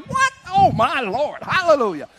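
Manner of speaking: high exclaiming hallelujah; joyful amazement. Retold or imitated. Boy praising God in wonder. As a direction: marvel and praise. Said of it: "I was like".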